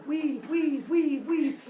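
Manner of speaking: high-pitched chant, evenly repeated; crowd cheering. Acted. Villagers cheer Arachne on, mock crowd chant. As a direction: chant it like fans egging on a weaver. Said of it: "people would surround her and cheer her on".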